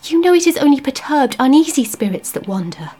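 high, urgent, tearful begging; wife begging her husband in distress; desperate pleading. Acted. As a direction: plead with him to stop.

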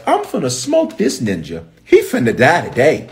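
playful acted vow of revenge; defiant threat. Joab refusing David's order not to kill, defiant.

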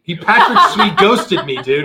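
slow, laughing joke; chuckling through it. Real, not acted.

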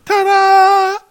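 high showy announcement; ta-da flourish. Pretend. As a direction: present it like a magician. Presenting the item.

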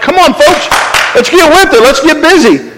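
high, brisk rallying of the lazy; mock drill sergeant hustle; bossy Martha. Martha urges everyone to get busy, high and brisk. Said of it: "She's like".

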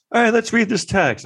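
sing-song mock lawyer. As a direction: play the smug lawyer. Lawyer voiced in retelling.

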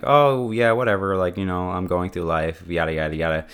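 blasé brush-off. Acted. Someone taking everything for granted, blasé. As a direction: toss it off as nothing special.

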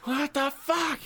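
high mock howl of agony; mock scream of pain. Imitating friend being pulled off rebar, mock scream. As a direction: imitate a shocked, high-pitched yelp. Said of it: "just so you'd be like".

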